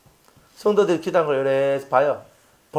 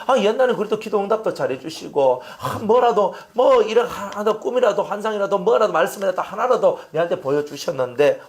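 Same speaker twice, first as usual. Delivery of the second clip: pleading complaint; 4 semitones higher than usual. Acted. Acted complaint to God.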